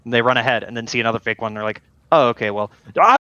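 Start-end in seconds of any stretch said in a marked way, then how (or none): 2.1-3.2 goes from loud to a high squeak; hammed-up dismay, voice jumps up; mock surprise rising to squeak. Enemies find another fake.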